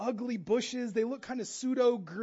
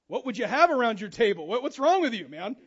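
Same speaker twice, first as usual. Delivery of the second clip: mock indignant; 4 dB louder than usual. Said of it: "You're like".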